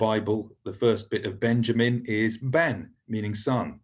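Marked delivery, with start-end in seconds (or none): 2.4-2.8 "ben" with the e of egg; vowel demo. Shown as a demonstration. Teacher modelling Hebrew for son, "ben" with short e. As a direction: say "ben" as in the start of Benjamin. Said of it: "pronounced like the e in English".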